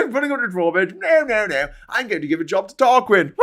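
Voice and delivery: high, lightly hammed-up posh refusal; mock toff. Vlogger mocking posh gatekeepers, light hammed-up voice. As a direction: sneer like a snobbish gatekeeper. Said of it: "continues toff quote".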